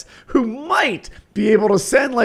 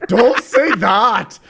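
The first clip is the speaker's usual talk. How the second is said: put-on Indian accent; much slower than usual. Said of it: "It's an Indian accent".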